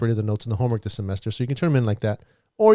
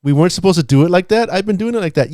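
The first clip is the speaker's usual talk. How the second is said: reading a chat message; 8 semitones higher, 7 dB louder than usual. Retold or imitated. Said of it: "someone said in the chat".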